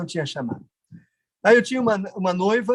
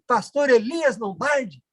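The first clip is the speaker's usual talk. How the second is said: slow, higher-pitched mild call; retold calling out; 6 semitones higher, slower than usual. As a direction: hail someone with drawn-out surprise, not really yelling. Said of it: "e eu gritei pra ele". (chamando alguém, encenado, sem gritar)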